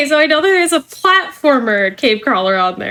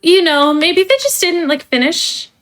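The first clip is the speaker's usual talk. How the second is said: polished corporate trainer voice; cheerful company onboarding spiel; customer service voice; 4 semitones higher than usual. Acted. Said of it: "let me put away my customer service voice now".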